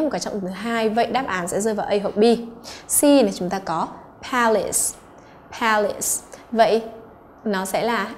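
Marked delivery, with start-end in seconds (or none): 4.3-6.2 "palace" stressed on PAL; first-syllable stress. Shown as a demonstration. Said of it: "trọng âm thứ nhất".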